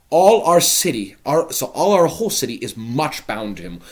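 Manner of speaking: loud, high, jubilant lord; pleased Capulet. Acted. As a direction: crow about the good news.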